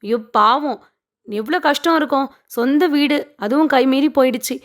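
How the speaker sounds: mock-sympathetic, haughty welcome; retold patronising pity; arrogant. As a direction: lightly act a condescending hostess, lifting the opening greeting. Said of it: "அவங்களுமே திமிரா தான் கூப்பிட்றாங்க".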